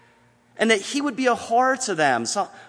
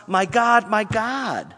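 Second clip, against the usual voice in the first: loud, higher cry to God; raised-voice retelling of a desperate cry; imitated crying out; 4 semitones higher, 5 dB louder, much slower than usual. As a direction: call out to God as from the cross. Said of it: "He cried out on the cross".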